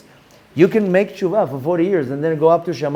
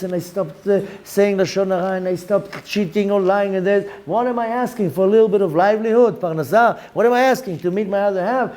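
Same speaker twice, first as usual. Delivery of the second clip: complaining congregant; 3 semitones higher than usual. Retold or imitated. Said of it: "people... came and told me".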